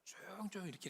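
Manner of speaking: put-on soft hushing like a mother near a sleeping baby; a mother's gentle shushing; hushed mother. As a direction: ease the words out quietly so the baby stays asleep. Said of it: "그 엄마들이".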